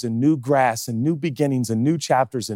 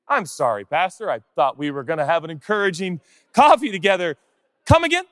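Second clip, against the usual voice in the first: surprised congregant; 5 semitones higher than usual. Pretend. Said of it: "congregant at coffee".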